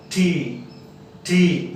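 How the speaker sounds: "ठी" with a soft puff of air after the t; soft aspirated T. Shown as a demonstration. Teacher teaches the letter T, soft aspiration. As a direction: say "ठी" as t-hee. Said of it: "यानी softly".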